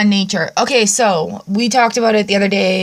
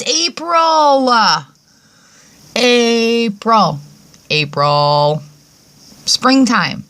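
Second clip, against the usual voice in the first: slowly spelt out; 2 semitones higher, much slower than usual. Real, not acted. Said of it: "now that I've spelt that out slowly".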